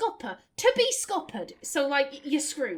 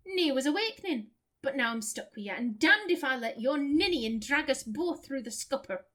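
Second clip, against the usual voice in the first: put-on broad Lancashire accent. Voices Isilmir in the broad accent.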